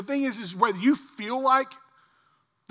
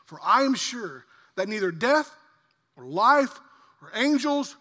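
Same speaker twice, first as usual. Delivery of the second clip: rising, louder proclamation of the verse; building proclamation; 4 semitones higher, 4 dB louder than usual. Acted. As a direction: build it up line by line, preaching. Building scripture reading.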